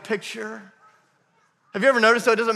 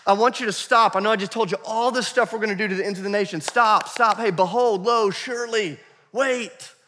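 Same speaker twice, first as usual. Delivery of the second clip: raised, insistent calls to halt; urgent exclamation; 4 semitones higher, 3 dB louder than usual. Acted. Jesus halting disciples to get their attention, urgent exclamation. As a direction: call out like a living exclamation point. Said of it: "almost like this exclamation point".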